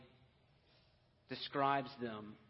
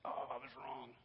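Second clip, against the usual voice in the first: whispered aside; 8 dB quieter than usual. Retold or imitated. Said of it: "She's like".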